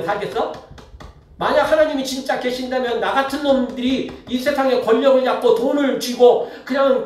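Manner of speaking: big talk. Retold or imitated. Preacher voices an evildoer daring God to punish him, mock big talk. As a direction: play a defiant scoffer making a bold case. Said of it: "이렇게 큰 소리 친다는 겁니다".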